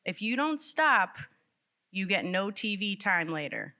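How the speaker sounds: hammed-up warning to a child; threatening parent. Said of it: "old phrases".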